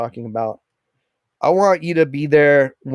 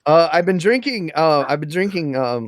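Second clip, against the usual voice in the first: talking through hiccups; hiccuping between words. Real, not acted. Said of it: "I've got the hiccups".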